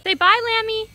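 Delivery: high, loud, sing-song prompt. Real, not acted. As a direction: cheer the little one on. Prompting toddler to wave bye.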